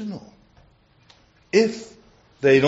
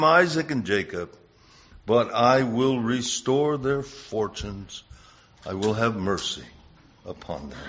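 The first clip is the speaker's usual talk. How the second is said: measured, solemn scripture reading; 3 dB louder than usual. Acted. Preacher reads Jeremiah to the church, solemn reading.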